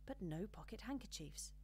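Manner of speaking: ordinary delivery, nothing marked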